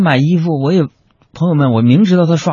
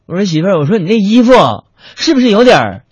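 clearer repeat; 6 semitones higher than usual. Retold or imitated. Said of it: "你把你那舌头捋直了，你再说一遍".

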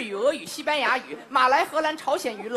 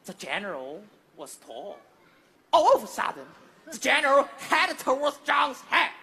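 English-language storytelling. Shown as a demonstration. Comic retelling the battle in English, dramatic storyteller. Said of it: "得用英语说呀".

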